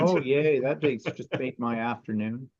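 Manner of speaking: deadpan fake delight; a half-hearted yay, unimpressed; sarcastic excitement. Real, not acted. Sewer told of inches still to sew, sarcastic. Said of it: "Can you hear the excitement in my voice".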